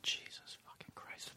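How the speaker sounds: slow stunned whisper. Real, not acted. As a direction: breathe it out, awestruck. Awed oath at a story.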